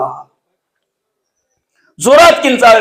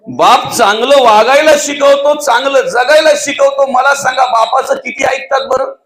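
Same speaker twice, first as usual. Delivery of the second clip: impassioned preaching; 4 semitones higher than usual. Real, not acted. Preacher raises voice on parents.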